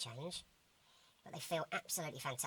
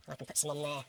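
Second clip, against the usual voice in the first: chipmunk voice; 7 dB louder than usual. Pretend. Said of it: "in my chipmunk voice".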